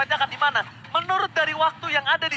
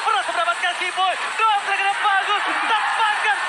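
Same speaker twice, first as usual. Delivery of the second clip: excited shout; 7 semitones higher, 4 dB louder than usual. Real, not acted. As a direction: hype shouting over the play. Casting a big teamfight play.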